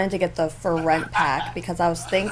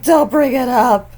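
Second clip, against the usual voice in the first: stern warning; 5 semitones higher, 10 dB louder than usual. Retold or imitated. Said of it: "He's like".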